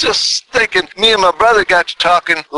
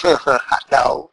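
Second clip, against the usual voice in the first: Boston accent; 3 semitones lower, 3 dB quieter than usual. Shown as a demonstration. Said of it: "say it like the Boston folks say it".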